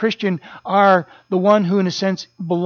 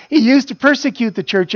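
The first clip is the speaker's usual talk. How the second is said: mock amazed; 5 semitones higher than usual. Quoting people's amazed reaction.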